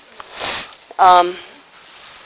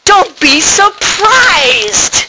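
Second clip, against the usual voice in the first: gentle reassurance; 5 semitones higher, much slower than usual. Acted. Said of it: "Therese says".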